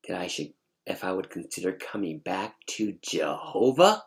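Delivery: incredulous question rising on "Jehovah"; indignant attitude. Retold or imitated. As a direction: throw the request back in disbelief. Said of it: "with this attitude".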